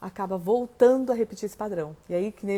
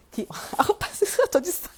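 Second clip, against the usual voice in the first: laughing; 6 semitones higher than usual. Real, not acted. Breaks into laughter mid-sentence.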